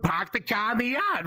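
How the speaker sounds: demonstrative Boston accent with dropped R's. Shown as a demonstration. Comic repeating his sample line, Boston accent. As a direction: show off a thick Boston accent. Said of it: "you know the Boston accent where it's like".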